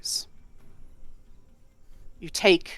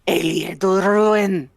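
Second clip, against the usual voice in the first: excited shout; 2 semitones higher, 5 dB louder, much slower than usual. Retold or imitated. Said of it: "I just go, gasps".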